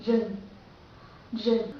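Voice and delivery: rừng with a Vietnamese R, like zh. Shown as a demonstration. Teacher comparing two languages, Vietnamese R in rừng. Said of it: "this is Vietnamese".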